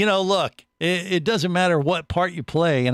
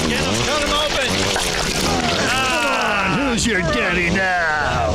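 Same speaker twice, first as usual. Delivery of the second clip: put-on belligerent drunk; 6 semitones higher than usual. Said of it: "acting reel demo".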